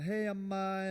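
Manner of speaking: son's eager hello to his mother on the phone; cheery phone greeting. Retold or imitated. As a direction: greet mom happily, pitch up. Calling mom on phone.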